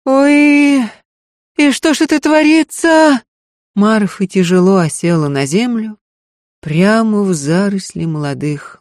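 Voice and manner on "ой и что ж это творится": much higher, louder wail; a maid lamenting, higher and louder. Acted. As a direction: wail in despair. Marfa voiced high.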